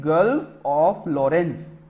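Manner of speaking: each word drawn out very slowly; stretched-out teacher dictation. Shown as a demonstration. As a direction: spell it out slowly for the class to write. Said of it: "इस वाली body को क्या कहेंगे?".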